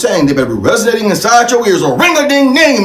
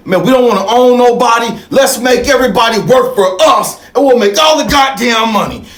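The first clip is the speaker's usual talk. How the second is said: scheming slave owner; 4 semitones higher than usual. Retold or imitated. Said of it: "said to the other slave owner".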